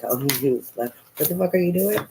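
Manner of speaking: high, laughing mock disbelief; laughing Spirit. Spirit laughing at the impatient reader. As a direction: laugh at her like an amused friend. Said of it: "They're like".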